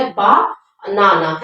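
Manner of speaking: बा, then नाना, as two separate parts; split into syllables. Shown as a demonstration. Teacher splitting banana into parts for the class, syllable by syllable. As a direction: break the word into बा and नाना with a gap. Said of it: "ये दो part हो गया".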